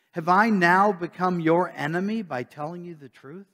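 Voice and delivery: measured, solemn reading of scripture. Acted. Pastor reading Galatians aloud to the church, measured and solemn. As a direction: read the apostle's letter to the congregation.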